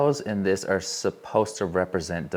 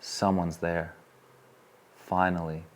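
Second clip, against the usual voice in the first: slow awed realization; 3 dB quieter, much slower than usual. Retold or imitated. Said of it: "And I was like".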